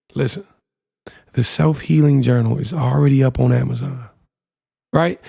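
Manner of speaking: hushed whisper. Telling listeners about her journals, the speaker says this part whispering. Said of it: "I'm gonna whisper this".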